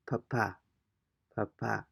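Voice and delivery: papa with the weight on the last A; stress on final A. Shown as a demonstration. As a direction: say papa as pa-PA, second syllable stressed. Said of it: "an emphasis on the letter A".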